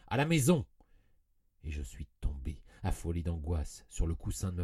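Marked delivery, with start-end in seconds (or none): 0.1-0.7 much louder and higher, torn-out cry; forced shout. A narrator's reading. Narrator possessed, shouting at his coachman, forced loud cry. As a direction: shout it against your own will. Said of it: "j'ai crié d'une voix si forte".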